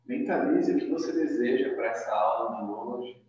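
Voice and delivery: soft, measured yoga-teacher guidance; guided breathing meditation. Acted. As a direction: guide a breath softly, leaving long pauses. Leads opening breathing meditation.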